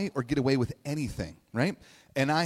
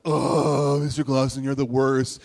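put-on eye-rolling teen; 6 dB louder than usual. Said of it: "I, like, rolled my eyes".

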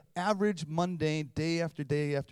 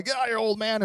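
loud, higher playful yell; playful mock shout; mock shove-off; 7 semitones higher, 6 dB louder, faster than usual. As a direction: shoo dad away from the phone. Kids pushing dad from phone.

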